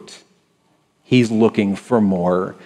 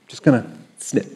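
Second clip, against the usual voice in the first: softer, playful aside; soft snip; 7 dB quieter than usual. Retold or imitated. God pruning a believer, softly playful. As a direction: murmur it like a gentle gardener. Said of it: "he's like".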